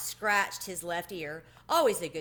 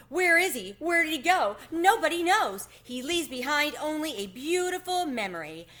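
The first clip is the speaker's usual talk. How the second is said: much higher, louder, swept up in emotion; carried away, voice cracking; 8 semitones higher, 7 dB louder than usual. A narrator's reading. Tucker Mouse dreaming of Chester's glorious vanishing, overcome. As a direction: rhapsodize until the voice breaks. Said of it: "His voice cracked".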